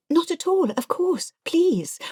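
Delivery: high, bright-eyed eager reply; eager high-pitched politeness. Retold or imitated. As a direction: gush a polite yes. The speaker eagerly quoting herself.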